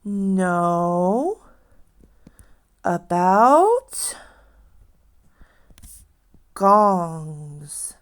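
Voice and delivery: slow, separated teacher model; word by word. Shown as a demonstration. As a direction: say it word by word for the class. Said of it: "so let's try".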